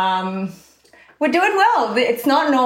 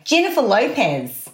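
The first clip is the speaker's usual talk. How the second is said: Aussie "Jennifer Lopez" with dropped r and wide vowels; Australian accent. Shown as a demonstration. Friend teaching the way in to the accent, Australian "Jennifer Lopez". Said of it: "You can do the accent because I taught you the way in".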